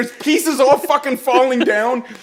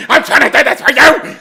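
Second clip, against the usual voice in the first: higher, strained protest; mock indignant; 4 semitones higher, 4 dB louder than usual. Dad protesting to his son mid-move, indignant. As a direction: imitate a defensive yell.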